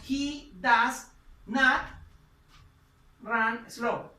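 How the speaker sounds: very slow, each word spelled out for the class; teacher dictating, stretch NOT out; slow model sentence. Shown as a demonstration. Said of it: "Entonces decimos".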